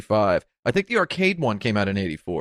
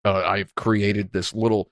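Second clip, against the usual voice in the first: hammy stage actor. Acted. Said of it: "talking in a really stupid sounding, uh, theatrical voice".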